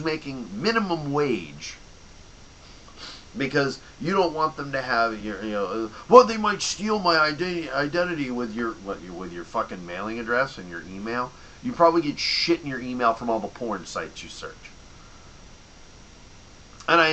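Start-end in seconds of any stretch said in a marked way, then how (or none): 6.1-11.3 mock paranoid customer.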